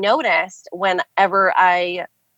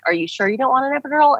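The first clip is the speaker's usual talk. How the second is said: higher, fast pressing question; quick repeat question; 7 semitones higher, much faster than usual. Retold or imitated. Doctor asking again during a contraction, fast and higher. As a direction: rattle it off, nudging her again.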